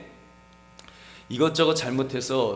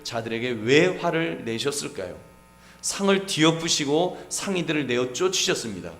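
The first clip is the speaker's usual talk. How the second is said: ordinary talk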